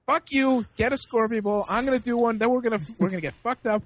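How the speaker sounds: bully a pal into drinking, half in jest; pushy, belligerent insistence. Retold or imitated. Drunk man insisting on shots, retold.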